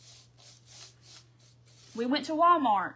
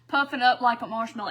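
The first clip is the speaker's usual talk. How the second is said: laughing; 6 dB louder than usual. Real, not acted. Laughing at paint puffing up.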